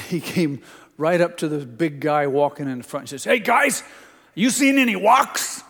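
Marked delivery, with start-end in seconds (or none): 3.2-5.6 put-on high, bright-eyed kid asking the road crew; little boy voice. Grandson eagerly asking the road crew about rocks, high child voice.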